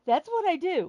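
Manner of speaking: laughing through the words. Real, not acted. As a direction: still laughing at it. Laughing after her joke.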